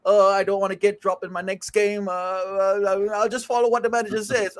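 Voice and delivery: flat robotic player voice. Retold or imitated. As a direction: speak like a robot, no feeling. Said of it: "trying to imitate him".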